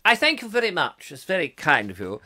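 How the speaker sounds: put-on old-fashioned BBC English; plummy BBC announcer accent. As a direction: thank them in a posh BBC accent. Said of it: "Love the B B C accent".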